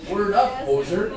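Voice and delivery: mock Canadian slang voice; Canadian accent. Teacher showing how Canadians talk, mock Canadian accent. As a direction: lightly imitate a Canadian. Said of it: "that's how they talk".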